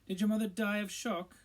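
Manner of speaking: Malfoy taunting Harry and Ron; sneering Malfoy. A narrator's reading. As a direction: spit the nicknames with scorn. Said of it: "said Malfoy".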